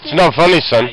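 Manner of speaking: posh patient voice. Pretend. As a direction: answer like a posh gentleman. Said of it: "now talking in a posh voice".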